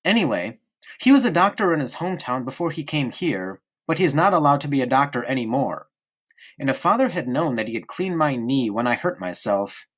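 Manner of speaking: put-on a small boy prattling on to his friend; young boy Bruno. Bruno voice again.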